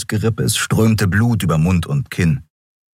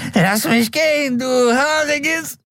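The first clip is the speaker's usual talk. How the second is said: zappelnder Gefangener; slower than usual. A narrator's reading. Dangling man begs the beast.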